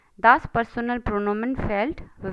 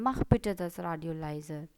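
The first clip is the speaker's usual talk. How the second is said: request form; 5 semitones lower, 3 dB quieter, much slower than usual. Shown as a demonstration. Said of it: "रिक्वेस्ट फॉर्म में भी बोल सकते हैं".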